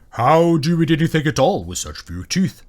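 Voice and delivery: booming beast, puzzled; incredulous dragon. A narrator's reading. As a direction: ask in amazement as a great dragon.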